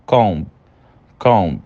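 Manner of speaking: "Comb" with a slightly firmer final B, still muted; B um pouco audível. Shown as a demonstration. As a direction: close "Comb" on M with a small B release. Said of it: "um pouquinho mais forte do B". ("Comb" com B final um pouquinho mais forte)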